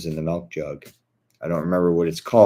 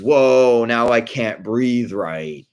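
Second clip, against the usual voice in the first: mock breathless gasp; 5 semitones higher, 6 dB louder, much slower than usual. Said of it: "he goes".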